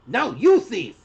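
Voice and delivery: loud, high squeaky retort; small kobold squealing in protest; panicked squeak. A narrator's reading. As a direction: squeak back like a panicked youngster. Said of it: "with a panicked squeak".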